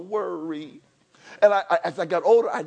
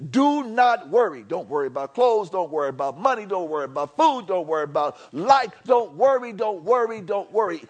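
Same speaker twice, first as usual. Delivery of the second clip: preaching. Acted. Preacher pressing the congregation not to worry. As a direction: hammer the words home from the pulpit. Preacher repeating Jesus's words.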